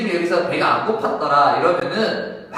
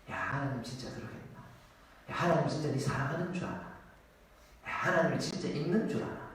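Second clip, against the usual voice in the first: soft, sly tempter voice, quieter; 11 dB quieter, faster than usual. Acted. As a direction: coax him into doubt like the serpent. 사탄의 속삭임을 연기. (나지막이 의심을 부추기는 사탄 목소리)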